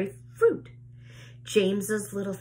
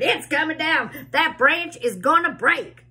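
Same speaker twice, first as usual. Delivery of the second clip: alarmed shout; 8 semitones higher, 6 dB louder than usual. A narrator's reading. Aunt voiced in story, alarm.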